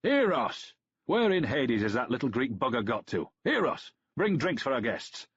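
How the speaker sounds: put-on loud, high bellow in a Danubian accent; bellowing for the slave. A narrator's reading. Host bellows for his slave Eros to bring drinks. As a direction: roar the slave's name across the house. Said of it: "Aurelian bellowed".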